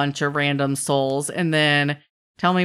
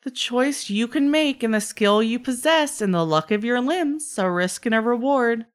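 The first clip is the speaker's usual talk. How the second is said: trickster's offer; 6 semitones higher than usual. Acted. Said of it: "and he goes".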